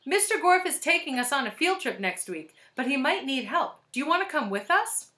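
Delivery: high, eager schoolgirl voice; Allison. A narrator's reading. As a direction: pipe up sweetly like a pupil. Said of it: "this time using Allison's voice".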